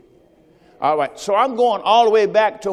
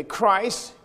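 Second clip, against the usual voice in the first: call and response. Shown as a demonstration. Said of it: "I want you to say that with me".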